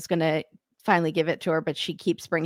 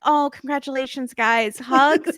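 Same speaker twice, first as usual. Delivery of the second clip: fake sweet; 5 semitones higher than usual. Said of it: "they'll be like".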